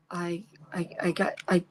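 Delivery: hushed fumbling start; whispered stammer. Real, not acted. Struggling to explain to viewers, in a whisper. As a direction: whisper while searching for words. Stumbling for words.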